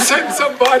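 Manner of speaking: high squeaky critter cry; raccoon voice. Pretend. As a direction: call out as the stuck raccoon. Raccoon bit, joining in.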